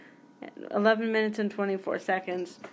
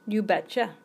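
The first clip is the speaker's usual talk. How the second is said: put-on a slight, unintended Minnesota accent; catchphrase with a hint of Minnesota. Attempting hip fifties slang, slipping into mild Minnesota accent. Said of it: "I can't say it without sounding like I'm from Minnesota".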